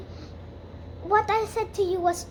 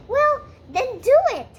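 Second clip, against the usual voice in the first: defiant shout; 8 semitones higher, 7 dB louder than usual. Acted. Anne defiant at Marilla.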